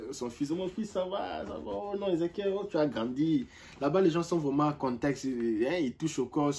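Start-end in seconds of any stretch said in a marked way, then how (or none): 0.5-3.5 lightly voiced fond father, a bit higher; doting father. Friend's father welcoming him home, fond and lightly mimicked. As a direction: greet him like a proud dad who hasn't seen him in ages. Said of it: "Il m'appelle même mon fils".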